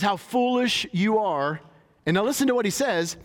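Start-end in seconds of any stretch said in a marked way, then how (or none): 0.0-1.6 slow, stretched rebuke on foolish; Jesus gently scolding, slow and emphatic. Acted. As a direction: draw out how foolish you are.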